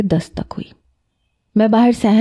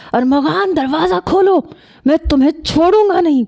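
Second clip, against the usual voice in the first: much higher, enraged threat in another voice; seething cousin pounds the door, furious and high; furious outburst; 8 semitones higher than usual. A narrator's reading. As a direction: explode at him through the locked door. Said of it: "Shariq بپھر کے بولا".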